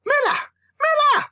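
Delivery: climbing frantic yells; escalating call. Acted. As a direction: call out harder each time. Calling brother, getting louder.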